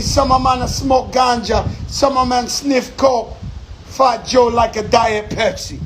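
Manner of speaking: lightly put-on Jamaican patois. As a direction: tease the locals with a mock island accent. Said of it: "I'm just using my patois voice".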